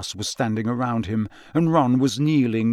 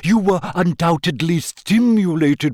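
airy, dreamy fortune-teller voice; a lightly voiced mystic professor; misty seer voice; 5 semitones higher, 4 dB louder than usual. A narrator's reading. Trelawney speaks.

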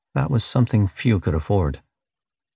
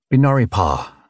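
louder, clipped alien command; growled; 4 semitones higher, 3 dB louder than usual. Acted. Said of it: "the alien growled".

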